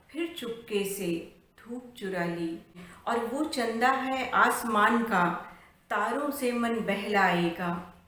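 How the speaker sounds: measured, lilting verse reading; poem recitation. Acted. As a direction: recite the verse line by line, drawing out phrase ends. Recites her poem before introduction. (लयबद्ध कविता पाठ)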